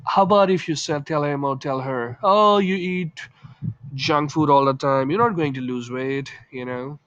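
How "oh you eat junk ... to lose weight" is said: blunt, tactless. Shown as a demonstration. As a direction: say it bluntly and let it sting. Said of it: "So he might feel offended".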